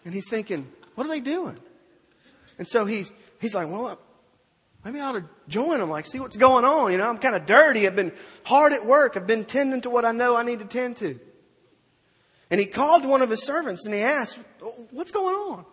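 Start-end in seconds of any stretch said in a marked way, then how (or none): 1.0-1.6 much higher, baffled question; wondering aloud in disbelief; puzzled. Acted. Older son staring at the house, higher and puzzled. 3.7-11.2 loud, higher, self-justifying; older son musing. Acted. Older son weighing joining the party, loud and higher. 14.9-15.7 much higher, urgent ask; puzzled question. Acted. Older son asking a servant, much higher.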